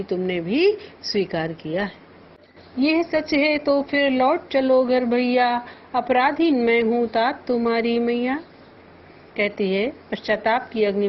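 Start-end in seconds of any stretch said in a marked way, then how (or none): 2.8-8.4 measured, lifted verse recitation; poem recital. Shown as a demonstration. Teacher reciting verse to the class. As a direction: recite the couplet with feeling.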